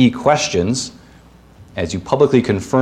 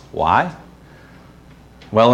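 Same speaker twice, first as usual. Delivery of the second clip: ordinary delivery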